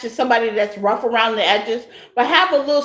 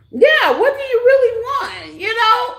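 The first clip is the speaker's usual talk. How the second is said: much higher, laughing through it; laughing question; 10 semitones higher than usual. Real, not acted. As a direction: push the question while cracking up.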